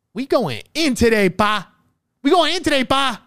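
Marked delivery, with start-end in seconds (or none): 2.2-3.2 hyped yell. Real, not acted. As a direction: shout it out like you're fired up. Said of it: "I'm fucking yelling out here".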